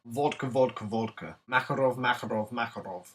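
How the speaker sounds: warming up a mock Russian accent; repeated Russian-accented drill words. Shown as a demonstration. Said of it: "Need to prepare my Russian accent".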